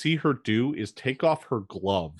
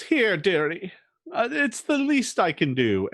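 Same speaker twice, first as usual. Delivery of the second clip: lightly raised, kindly crone voice; Malvina's sweet old-lady voice; 7 semitones higher than usual. Acted. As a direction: offer it sweetly, like a grandmotherly witch. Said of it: "turns around and says".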